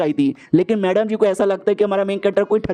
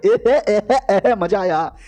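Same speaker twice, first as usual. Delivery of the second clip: teasing laugh; slower than usual. Acted. Girl teases friend, laughing.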